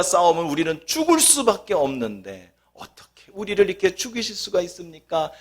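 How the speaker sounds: mock tearful lament, rising to a plea; hammed-up wailing complaint to God; wailing Israelites. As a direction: act out the people crying to God. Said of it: "라고 밤새 통곡을 합니다".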